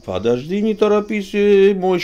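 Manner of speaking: exaggerated Jewish accent, almost Caucasian. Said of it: "когда я так разговариваю с еврейским акцентом".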